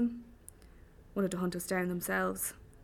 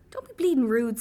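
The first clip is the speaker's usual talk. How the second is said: loud, higher-pitched telling-off; indignant, raised-voice reproach; scolding; 4 semitones higher, 9 dB louder than usual. A narrator's reading. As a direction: rebuke them sharply for bad manners. Neck scolds the frightened narrator.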